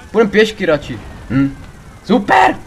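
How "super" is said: high, loud whoop of triumph; triumphant super. Real, not acted. Gamer celebrating a near escape, high whoop.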